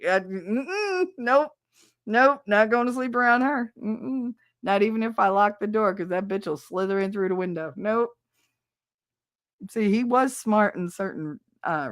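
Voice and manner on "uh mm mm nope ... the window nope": higher, wary string of nopes; imitating an ex's firm refusal; adamant refusal. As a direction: refuse flat out, head-shaking hums. Retold ex refusing to sleep.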